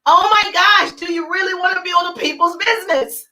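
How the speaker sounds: exasperated disbelief; exclaiming. Real, not acted. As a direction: pitch up and push it out. Coach scolding unsocial networkers.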